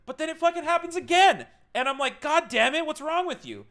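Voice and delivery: scolding himself in a high, loud, frustrated voice; exasperated outburst. Retold or imitated. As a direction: blow up at your own body in frustration. Frustrated at himself mid-act.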